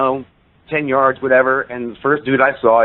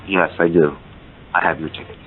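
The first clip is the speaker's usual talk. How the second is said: deliberate; 7 semitones lower than usual. Retold or imitated. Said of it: "he stopped and paused again".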